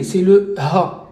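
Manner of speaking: "ha" drawn out very slowly with an audible breathy h; "ha" said slowly with the h breathed out clearly; breathy English h. Shown as a demonstration. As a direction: give "ha" a long, slow breathy h as in English. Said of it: "c'est le H en anglais".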